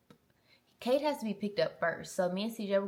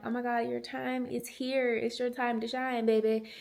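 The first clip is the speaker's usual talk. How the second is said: higher-pitched mock cheering; playful hype; 4 semitones higher, 3 dB louder than usual. Mom to son starting school, playfully hyped. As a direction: hype up your little one, playfully.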